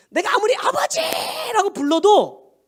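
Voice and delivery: "아버지라고" drawn out high and slow; calling Father. Acted. Pastor acting a believer calling God, long high call. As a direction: cry out the word to heaven.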